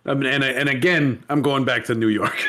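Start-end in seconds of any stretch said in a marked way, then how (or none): 1.3-2.4 lightly put-on New York accent; a hint of mock New York; botched New York accent. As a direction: slip into a mistaken New York accent, pitched slightly down. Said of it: "I'm doing the wrong accent".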